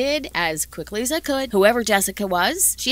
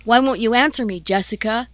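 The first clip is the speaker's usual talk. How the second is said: retold yell; 5 dB louder than usual. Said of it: "he yelled".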